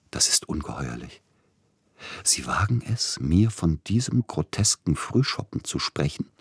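breathy, held-back outrage; slightly panting. Acted. Tschaikowski beherrscht sich vor dem Agenten, keuchend. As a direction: swallow the anger, breathing hard. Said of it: "sagte nur etwas keuchend".

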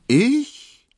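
high, loud startled "Ich?"; mock astonishment, a sharp high yelp; feigned surprise. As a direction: play innocent, jump up in pitch. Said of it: "heuchelte er Erstaunen".

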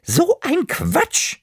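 high, slow granny voice; grandma scolding herself fondly. Acted. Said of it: "hat sie gesagt und mich ganz fest umarmt".

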